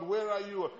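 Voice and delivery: a loud pleading search call; desperate cry. Retold or imitated. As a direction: cry it out to an unseen God.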